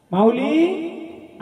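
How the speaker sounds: long, slow, coaxing call; drawn-out call. Real, not acted. Healer calling the spirit in a ritual, drawn-out call. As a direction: stretch the word out as you call.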